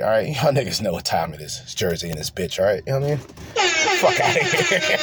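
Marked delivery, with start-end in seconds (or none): 4.0-5.0 laughing. Real, not acted. Laughing at own Jersey joke.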